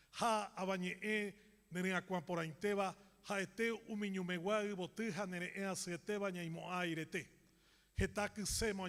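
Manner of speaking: measured Guaraní verse recital; poem recitation. Acted. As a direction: recite the verse in long, flowing phrases.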